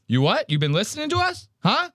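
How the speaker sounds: a cocky British lad squaring up; British bloke challenge. Retold or imitated. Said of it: "They go".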